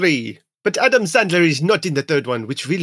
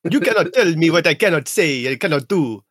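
put-on Romanian vampire accent. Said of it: "bad Romanian accent".

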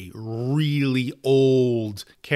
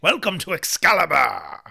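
royal herald; 6 semitones higher, 6 dB louder than usual. Acted. Grand royal welcome in skit.

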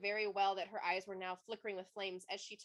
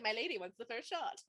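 laughing Rowan quote. Retold or imitated. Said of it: "Rowan's like".

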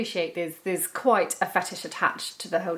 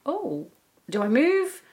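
laughing self-quote; 5 semitones higher than usual. Retold or imitated. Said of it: "you're like".

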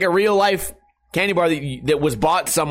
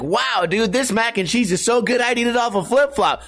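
raised, hyped-up food show host voice; Guy Fieri impression; 6 semitones higher than usual. Mock Guy Fieri raving to the restaurant owner about the food. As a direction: gush about the mac and cheese like a TV food host.

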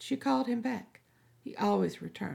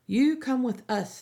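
firm demand, higher and louder; 5 semitones higher, 4 dB louder than usual. Acted. Captain ordering Melly to come, firm and louder. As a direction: bark the order at her. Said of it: "the captain demanded".

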